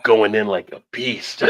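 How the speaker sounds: slow hushed wildlife narrator; nature documentary narrator. Pretend. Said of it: "old Animal Kingdom".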